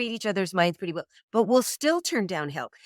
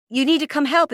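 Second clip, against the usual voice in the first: high, louder exasperated demand; acted-out cross girlfriend, pitched up; imitated angry demand; 8 semitones higher, 5 dB louder than usual. Girlfriend demands help with dishes from boyfriend, cross.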